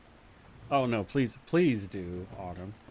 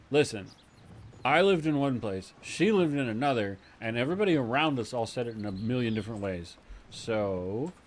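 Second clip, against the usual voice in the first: mock exasperated retort; 2 semitones higher, 4 dB louder than usual. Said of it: "you'd be like".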